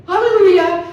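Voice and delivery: loud, high cry of relief; joyful hallelujah. Real, not acted. Celebrating escaping the sketchy spa, a loud joyful hallelujah. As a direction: throw it up like a praise shout.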